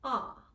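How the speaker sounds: ah said long and open, jaw dropped; British ah vowel. Shown as a demonstration. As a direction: model the ah, rounded and open. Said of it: "a more slightly narrow sound".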